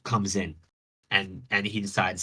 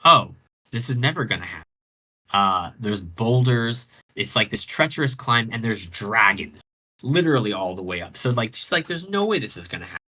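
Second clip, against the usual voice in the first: mild mock despair; 3 dB louder than usual. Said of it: "she's totally distraught".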